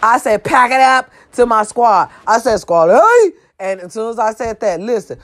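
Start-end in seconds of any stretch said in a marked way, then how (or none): 0.4-1.1 raised, higher call to the group; rally the crew to move. Retold or imitated. Telling squad to pack up, calling out. 2.6-3.3 high call to the squad. Retold or imitated. Signaling the squad to leave, calling out.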